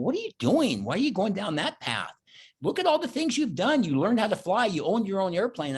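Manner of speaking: inner voice pep talk. Retold or imitated. Inner voice scolding himself.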